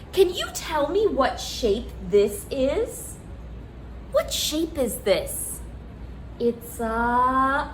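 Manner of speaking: put-on reading to a toddler.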